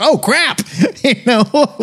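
high-pitched comic panic, tossed off; mock dismay. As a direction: fake alarm at suddenly having a hit. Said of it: "And they were like".

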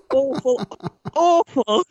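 awful, then AWFUL, climbing; building exasperation. Real, not acted. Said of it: "awful accent".

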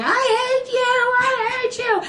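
high, slow sing-song wail; sing-song I hate you. Retold or imitated. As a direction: whine it like a bratty kid.

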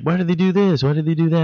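high, whiny turtle voice; goofy teen whine; Michelangelo voice. Retold or imitated. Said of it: "Michelangelo will go off on something".

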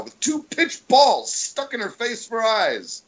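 big theatrical Shakespeare recital, high and swooping; hammy stage actor. Shown as a demonstration. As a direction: declaim it like a ham on stage. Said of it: "give you my, my Skype version".

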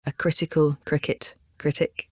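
careful, softly spaced words; measured articulation practice, slightly softened; slow tongue twister. Shown as a demonstration. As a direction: separate each word of the tongue twister. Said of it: "start slowly".

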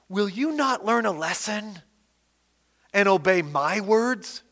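bold preacher reading God's words; preaching scripture aloud. Acted. Preacher reads the Lord's warning to Judah, proclaiming. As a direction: proclaim the passage to the congregation.

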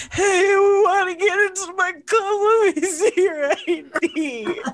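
high, put-on bouncer voice demanding ID; silly high club-bouncer voice; drunk bouncer. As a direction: play a tipsy doorman checking IDs. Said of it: "be like".

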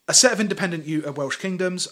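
normal talking voice

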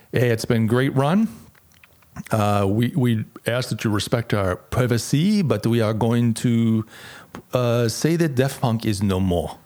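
badly faked French accent; halting mock-French announcement. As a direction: put on a hammy French accent. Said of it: "That's my really bad French accent".

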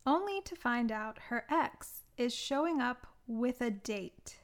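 measured, deliberate film-blurb read; summary read-out. Acted. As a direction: read out a prepared plot summary, phrase by phrase. Reads out own plot summary.

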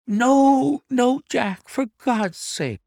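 high, desperate wife's gasp; loud high plea, slowing at the end; gasped, uncontrollable emotion. A narrator's reading. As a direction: gasp it out in panic, as the wife. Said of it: "she gasped in uncontrollable emotion".

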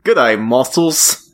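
slow mock Aussie greeting; Australian accent. Riffing on knives and muscles with a friend, mock Australian accent. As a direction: put on a broad Australian accent. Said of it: "I'm Australian".

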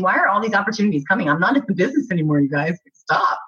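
rapid, tumbling half-joking protest; fast mock exasperation. Actress joking about too many offers, fast mock exasperation. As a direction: rattle it off like playfully overwhelmed. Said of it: "I'm thinking".

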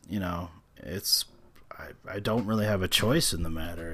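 hushed, breathy confession; whispering. Real, not acted. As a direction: drop to a whisper. Confessing he has no choice.

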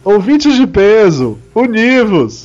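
slow booming show opener; announcer voice. Acted. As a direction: call it out like a radio host. Podcast opening call.

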